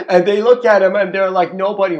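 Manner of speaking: high, loud words squeezed out through laughter; can barely get it out for laughing; laughing while talking. Real, not acted. Telling viewers about the merchants while laughing hard.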